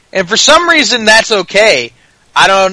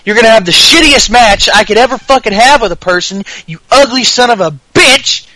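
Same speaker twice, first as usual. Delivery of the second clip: mock AJ rant; 5 semitones higher than usual. Ranting in character as AJ.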